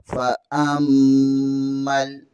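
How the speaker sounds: drawn-out Quranic recitation; slow recitation. Shown as a demonstration. Teacher models the word for students, slow chant. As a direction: draw each sound out slowly, chanting.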